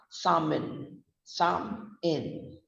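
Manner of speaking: "salmon" as two parts, SAM-un; silent L. Shown as a demonstration. Teacher repeating the correct salmon for learners, silent L. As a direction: say "salmon" without any L. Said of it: "So we pronounce it".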